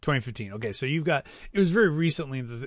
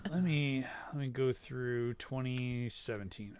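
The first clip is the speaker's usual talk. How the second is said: laughing whisper; 3 semitones lower, 10 dB quieter than usual. Real, not acted. Laughing while searching Hulu.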